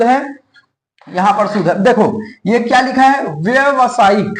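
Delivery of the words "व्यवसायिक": व्यवसायिक with a short व्य at the start, drawn out slowly; wrong pronunciation. Shown as a demonstration. Teacher reading the misspelt word to students, wrong pronunciation. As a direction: sound out व्यवसायिक slowly with no long आ after व्य. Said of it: "व्यवसायिक है नहीं".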